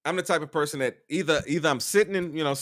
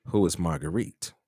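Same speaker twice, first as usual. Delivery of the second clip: mimicking jealous partner; 5 semitones lower than usual.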